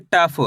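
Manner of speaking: टफ with a long full ट and a short फ; टफ ending on a half फ, no final aa; full first, half last. Shown as a demonstration. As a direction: draw out the ट in टफ, barely voice the फ. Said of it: "टा को तो पूरा पढ़ेंगे".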